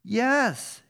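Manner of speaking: slow, drawn-out defiant yes; retort. A narrator's reading. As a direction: retort it as Jonah, stretching the word. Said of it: "Jonah retorted".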